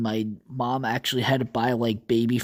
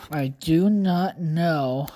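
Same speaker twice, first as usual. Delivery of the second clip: slow, drawn-out mock British "I do not know"; each word of "I do not know" spaced out in a posh British voice; British accent; much slower than usual. Puzzled vlogger lapses into slow British accent. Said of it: "I don't know why I became British".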